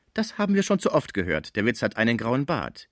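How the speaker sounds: dancer, dismissive. Acted. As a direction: wave off the stale joke as the dancer. (abfällige Tänzerin, hoch einsetzend)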